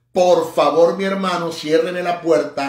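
interpretado con fuerza y expresión; expressive interpreting. Shown as a demonstration. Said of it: "ahí estoy interpretando, o sea, expresando, vociferando".

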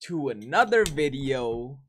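low, groggy just-woke-up voice; morning voice. Real, not acted. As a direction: fresh out of bed, voice still low. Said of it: "y'all could hear my morning wakey voice".

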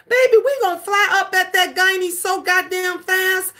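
laughing through a mock frantic promise; half-laughing, half-wailing, overdone. A mom to her baby, laughing and wailing. Mom rushing daughter to gynecologist.

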